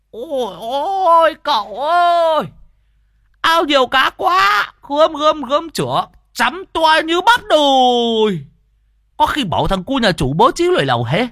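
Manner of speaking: put-on two old cronies hollering greedily over the fish pond; bawling old men. A narrator's reading. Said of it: "Lâm Sẹo và Đồng già gào lên".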